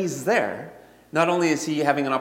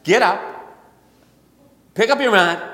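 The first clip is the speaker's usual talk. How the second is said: louder, urgent call to get up and take the mat; compassionate command; 4 semitones higher, 6 dB louder than usual. Acted. Preacher voicing Jesus to the sick man, louder compassionate command. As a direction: project it like a healing order. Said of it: "in full compassion".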